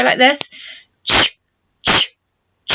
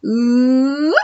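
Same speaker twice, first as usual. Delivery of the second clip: teacher's warm-up hum; warm-up ooh. Shown as a demonstration. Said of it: "One more time".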